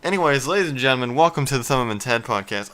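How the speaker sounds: rushed intro. Real, not acted. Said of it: "try again".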